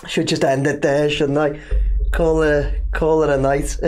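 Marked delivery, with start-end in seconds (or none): 2.1-3.8 words through a chuckle; laughing. Real, not acted. Host joking about ending the stream, laughing. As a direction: still laughing as you say it.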